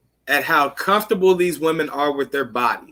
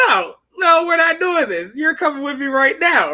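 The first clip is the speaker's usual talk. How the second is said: higher, half-shouted no; firm refusal; 9 semitones higher than usual. Retold or imitated. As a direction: lay down the law, you're not falling for it. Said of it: "He goes".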